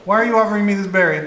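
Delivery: quick, suspicious goblin voice; wary goblin voice. Acted. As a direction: goblin eyeing the gift warily. Goblin voice, fast.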